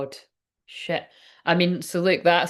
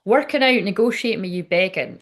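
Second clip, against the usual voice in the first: emphatic reread; 2 semitones higher than usual. Shown as a demonstration. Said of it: "Right, so".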